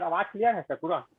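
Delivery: mic check, a bit firmer in volume. Real, not acted. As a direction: speak up a little to be heard. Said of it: "थोड़ा जोर से बोलिए".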